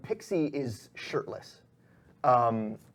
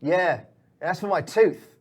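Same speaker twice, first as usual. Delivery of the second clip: loud, slow thug voice, pitched up; slow, raised henchman voice; vengeful henchman; 6 semitones higher, 9 dB louder than usual. Acted. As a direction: gloat loudly over a fallen captive. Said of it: "the guy looks down and is like".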